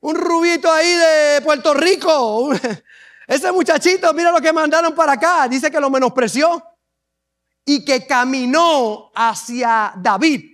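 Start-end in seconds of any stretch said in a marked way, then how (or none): 0.0-5.5 scornful taunt pitched higher, with a laugh; Goliath laughs at the boy sent against him, pitched up; mocking Goliath. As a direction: sneer at the little boy. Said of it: "Goliat se rió de él. Le dijo".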